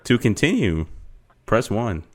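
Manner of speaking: slow, even recorded-menu voice; automated phone menu voice. Acted. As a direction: read it like a phone system. Plays automated phone service.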